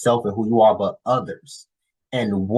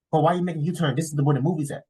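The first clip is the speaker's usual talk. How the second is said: imitated girlfriend, higher and puzzled; confused girlfriend; 7 semitones higher, much faster than usual. Girlfriend asking why they turn from the movie, mock confused. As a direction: mimic her bewildered protest. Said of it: "looking at me confused".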